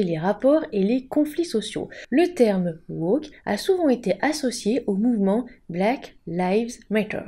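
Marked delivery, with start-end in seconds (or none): 5.7-7.2 Black Lives Matter avec un accent anglais appuyé; dis-le à l'anglaise, un peu exagéré; English accent. Shown as a demonstration. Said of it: "Avec mon super accent anglais". (accent anglais un peu forcé)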